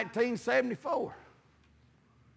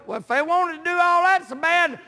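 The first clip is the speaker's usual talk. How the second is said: preaching; 7 semitones higher, 3 dB louder than usual. Real, not acted. Preacher recalling friends who wanted his money, preaching. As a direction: pitch climbing into full preaching voice.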